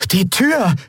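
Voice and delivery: high, startled call; exclaiming. A narrator's reading. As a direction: cry out on a sudden realisation. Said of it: "rief Miko aus". (erschrockener, hoher Ausruf)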